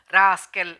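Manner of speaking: spits out the insult, loud and sharp; angry insult. Acted. Husband insulting his wife before slapping her, loud and angry. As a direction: snap the word like a slap. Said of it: "అంటూ తరుణేశ్వర్ సుగంధి చెంపను".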